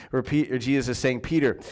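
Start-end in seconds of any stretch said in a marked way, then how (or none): 1.2-1.6 compassionate question. Retold or imitated. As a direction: ask it with kindness, not blame. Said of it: "more of a compassionate question".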